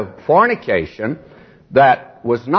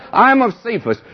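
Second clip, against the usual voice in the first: mocking boaster; 8 semitones higher than usual. Mocking boastful church members.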